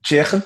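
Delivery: Chicken with a scraped Scouse ch for the ck; throaty ch. Shown as a demonstration. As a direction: say Chicken as "chikh-en". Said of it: "it's with a ch".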